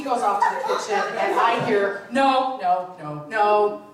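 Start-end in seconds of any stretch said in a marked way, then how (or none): 2.1-3.8 panicked no. Retold or imitated. Husband panicking in kitchen.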